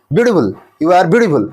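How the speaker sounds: "ब्यूटीफुल" and "beautiful" each run together without breaks; in one go. Shown as a demonstration. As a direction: rattle off "beautiful" as a single burst. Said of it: "ऐसा तो बोलते नहीं है".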